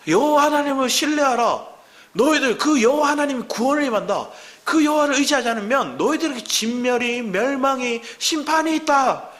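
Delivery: high, forceful preacher's cry; joyful prophetic proclamation. Retold or imitated. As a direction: proclaim it to a whole nation. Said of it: "환희에 차서 소망 가운데 기쁨으로".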